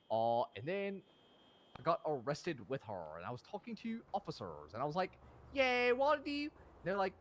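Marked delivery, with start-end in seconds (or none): 5.5-6.4 high, loud call; acted hyped catchphrase. Man talking to officers, high hyped-up greeting.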